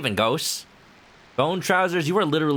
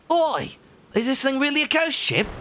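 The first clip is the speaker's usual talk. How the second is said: higher character calling out; 12 semitones higher than usual. Acted.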